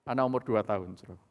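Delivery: ordinary delivery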